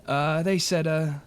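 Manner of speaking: innkeeper York, a bit defensive. Acted.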